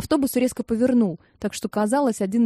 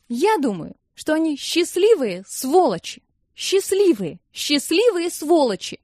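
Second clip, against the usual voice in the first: bitter outburst; 7 semitones higher than usual. A narrator's reading. Irie's angry outburst.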